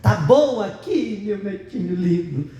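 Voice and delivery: grovel sweetly to the little boss; sweet submissive grandma. Retold or imitated. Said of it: "E a avó diz".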